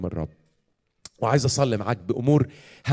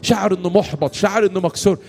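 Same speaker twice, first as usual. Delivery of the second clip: raised, insistent preaching prayer; fervent prayer leading; 4 semitones higher, 4 dB louder than usual. Real, not acted. Preacher praying for the weary in the hall, fervent prayer. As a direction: plead for the congregation with rising urgency.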